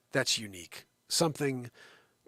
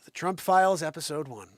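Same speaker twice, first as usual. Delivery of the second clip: announcer voice; 3 semitones higher, 5 dB louder than usual. Acted. Announcing the show start.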